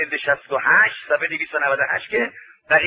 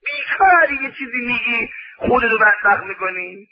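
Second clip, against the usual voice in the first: scolding shout; 4 semitones higher than usual. Acted. Preacher scolding idle talkers.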